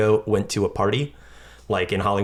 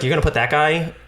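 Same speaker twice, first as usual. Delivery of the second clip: put-on Southern-accented Sheldon; 5 semitones higher than usual. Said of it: "keep making him Southern".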